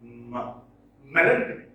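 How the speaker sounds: "M-, melancholy", opening sounded alone, then the word front-stressed; stress on first syllable. Shown as a demonstration. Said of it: "Stress is on the first syllable".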